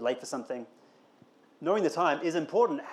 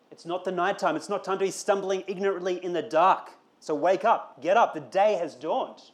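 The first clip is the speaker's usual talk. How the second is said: preaching at full force; 2 semitones higher than usual. Acted. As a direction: urge them to wake up now.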